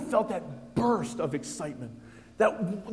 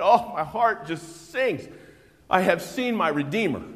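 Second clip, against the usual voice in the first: believer's rapture; 2 semitones higher, 4 dB louder than usual. Acted. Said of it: "when you said".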